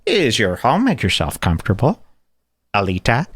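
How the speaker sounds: a hint of a polite movie villain; retelling the pipe scene, light villain impression; Christoph Waltz. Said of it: "And Christoph Waltz goes".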